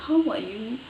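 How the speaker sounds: a light attempt at a British accent. Shown as a demonstration. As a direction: lightly imitate British intonation. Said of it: "British people".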